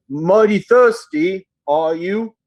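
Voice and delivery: slow, shy ogre, lightly voiced; slow-speaking ogre. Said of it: "and he says".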